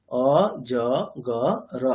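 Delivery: অ, জ, গ, র as four separate sounds, o, jo, go, ro; letter by letter. Shown as a demonstration. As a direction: pause between letters, র given its own vowel. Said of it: "written form দেখতে গেলে চারটেই".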